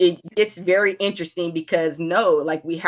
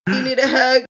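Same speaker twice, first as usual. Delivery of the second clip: tender mom offer; 5 semitones higher than usual. Retold or imitated. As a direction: coax a child into a hug. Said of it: "I will literally be like".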